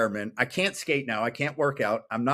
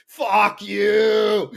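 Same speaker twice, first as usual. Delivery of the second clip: loud, higher shouted curse; defiant yell; 8 semitones higher, 7 dB louder than usual. Retold or imitated. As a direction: throw it at the world like a battle cry. Defiant yell while skating bowl.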